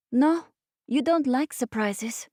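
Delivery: put-on high-pitched childish disbelief; scandalized little boy. A narrator's reading. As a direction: protest as if it were unthinkable. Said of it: "sounded as if that was a crime against nature".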